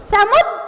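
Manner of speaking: "समुद" ending in an abrupt, held d; slight jolt. Shown as a demonstration. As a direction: catch the last consonant of "समुद" and stop. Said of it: "थोड़ा सा झटके से".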